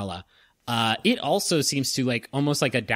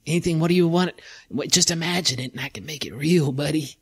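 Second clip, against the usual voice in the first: lightly voiced object pleading, dropping to a whisper on anything; whining monocle. The defeated monocle begs the adventurer, whining then whispering. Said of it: "you hear him go".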